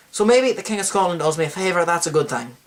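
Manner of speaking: bad Scottish accent, closer to Irish; put-on Scottish accent. Host redoing the king's thought after forgetting his accent, put-on Scottish accent. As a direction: redo it in a rough Scottish-Irish brogue. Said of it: "forgot to talk my accent".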